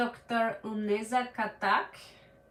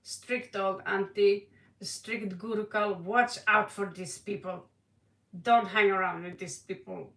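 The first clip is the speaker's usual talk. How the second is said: strict auntie; 3 semitones lower than usual. Pretend. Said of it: "I'm gonna be the, the strict auntie here".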